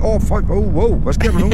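shouting. Real, not acted. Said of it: "Hvorfor råber jeg bare".

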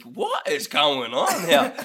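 slow, amused bewilderment; slow laughing what-is-happening; laughing disbelief. Retold or imitated. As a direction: drag it out through a laugh. Retold bafflement with laughter.

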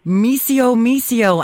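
"Misio, misio" called up high, sing-song; Italian cat call. Shown as a demonstration. Host calling a cat Italian style, sing-song. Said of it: "how you get an Italian cat to follow you".

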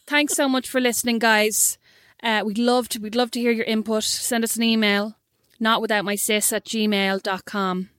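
put-on deliberate Irish accent, slowing towards the end; reclaimed Irish accent, read out as a sign-off. Host asking listeners for emails, put-on Irish accent. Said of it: "your Irish voice is so awful".

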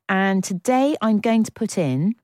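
plummy, posh delivery. Real, not acted. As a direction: say it like a posh announcer. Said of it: "I sounded really posh then".

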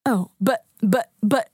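imitating a man lost for words; mock stuttering with gaps between words; halting stammer. Man caught out by her answer, halting stammer.

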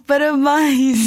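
drawn out, slow and choking up; slow tearful congratulations. Retold or imitated. Agent announces new novela contract.

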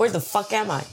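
high, mock bewildered American; lost rapper. Joking about a rapper lost at a club, high mock bewilderment. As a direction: squeak it like a lost star.

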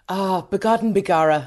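Irish accent. Shown as a demonstration. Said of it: "it sounds good in your accent".

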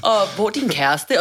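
very high, loud, crying scream; panicked screaming. Retold or imitated. Patient screaming at paramedics in panic. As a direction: shriek it in full panic, voice cracking. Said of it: "og jeg råber bare".

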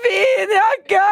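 high, loud call with a cry in it; retold excited shout; shouted compliment. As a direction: yell it out, half overcome. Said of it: "Jeg bare".

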